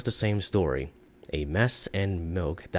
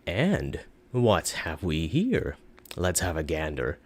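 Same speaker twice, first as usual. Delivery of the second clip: slow, savoring curious tone; eager curiosity; 2 semitones lower, slower than usual. Acted. Shopkeeper eyeing Thomas's loot, slow and eager. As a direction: relish opening the bag. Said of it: "like a child opening a gift".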